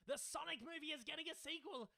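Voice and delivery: high, loud yelled announcement; excited yell. Retold or imitated. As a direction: shout it out like an excited fan's all-caps message. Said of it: "he's yelling it. He's screaming it".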